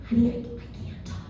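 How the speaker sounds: hushed, barely voiced excuse; soft whisper to spare the voice; saving the voice. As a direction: imitate having no voice left. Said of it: "trying to save my voice".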